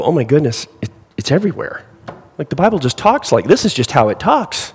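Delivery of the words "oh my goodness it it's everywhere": amazed realization. Pretend. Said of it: "you go".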